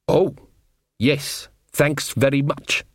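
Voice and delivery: slow dry sarcasm; sarcastic. Acted. Dwarf mocking Nanny's offer of gold, sarcastic. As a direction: drag out the thanks with sarcasm. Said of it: "said Casanunda sarcastically".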